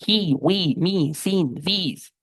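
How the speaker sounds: "he, we" said with a long smiling I; long I words. Shown as a demonstration. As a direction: smile through every vowel. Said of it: "Con I larga, sonriendo". ("he, we, me" sonriendo, con I larga)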